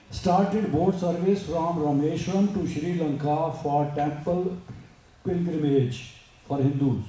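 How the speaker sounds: slow, measured English recitation; formal read-aloud. Acted. Speaker reading a great woman's story to listeners, slow formal read-aloud. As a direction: read it out word by word, slowly.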